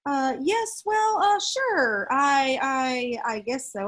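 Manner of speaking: a dad caught off guard, grabbing for words; unsure fumbling agreement that trails off; flustered and lost. Acted. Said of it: "He was lost".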